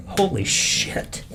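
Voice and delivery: breathy stunned whisper, drawn out slowly; whispered holy shit, in disbelief; awed gasp. Real, not acted. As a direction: let it out like the wind was knocked from you. Overwhelmed by daughter's pride.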